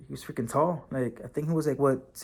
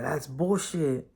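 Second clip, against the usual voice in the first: retold inmate scoff; 3 dB quieter, slower than usual. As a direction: drag it out, dismissive. Inmate's retort in retold quarrel.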